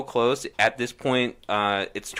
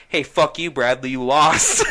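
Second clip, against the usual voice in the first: raised, louder crowing breaking into laughter; triumphant mock yell with a laugh at the end; gloating retold taunt; 4 semitones higher, 6 dB louder than usual. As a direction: rub the win in, voice climbing. Retold gloating at beaten opponent.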